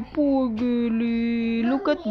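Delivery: slow, low pitying coo; cooing sympathy. Real, not acted. Parent consoles crying child.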